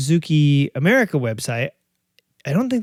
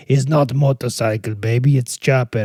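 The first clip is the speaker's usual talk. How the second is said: lightly voiced Bruce Willis tough guy; Pulp Fiction tough guy; 2 semitones lower than usual. Boyfriend correcting his girlfriend, lightly gruff. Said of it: "That's, that's Pulp Fiction".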